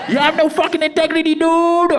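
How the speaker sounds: very high mock yell of the buyer; angry voice note. Angry buyer in the voice note, high mock yell. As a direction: shriek it like a furious buyer.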